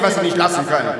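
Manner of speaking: normal talking voice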